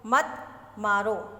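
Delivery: slow मत मारो as its own phrase after a break; मत and मारो kept together, slow and measured; set apart after pause. Shown as a demonstration. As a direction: draw out मत मारो as a separate command. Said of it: "उसके बाद pause दिया".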